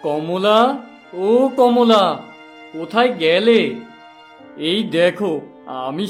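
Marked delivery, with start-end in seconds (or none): 0.1-3.6 calling out. Acted. Husband calls for his wife.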